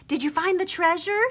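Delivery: high, eager call up into the hole; called eagerly. A narrator's reading. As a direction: call down, bursting to know. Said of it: "she called eagerly".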